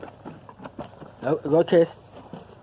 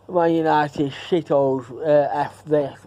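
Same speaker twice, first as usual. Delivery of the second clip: slow mocking taunt; slower than usual. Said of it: "going like that on T V".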